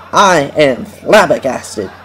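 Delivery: slow, deliberate mock quote; deadpan the quote slowly; quoting a stranger. Quoting the man in the cereal aisle, slow deadpan. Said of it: "and I quote".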